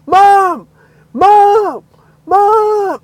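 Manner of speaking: long, high shouts for Mom; retold emotional yelling; crying out. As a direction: call out to your mother, overwhelmed. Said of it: "crying in the car".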